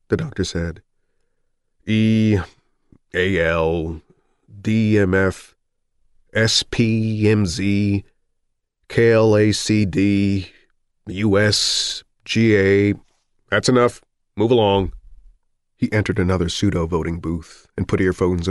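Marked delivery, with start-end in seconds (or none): 1.8-12.9 reading eye chart. Acted. Richards reading eye chart aloud for doctor. 13.5-14.9 brisk official order; curt doctor's dismissal. Acted. Doctor cuts off the eye test.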